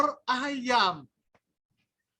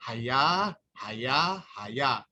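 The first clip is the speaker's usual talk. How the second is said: calling the madam; 7 semitones lower, much slower than usual. Retold or imitated.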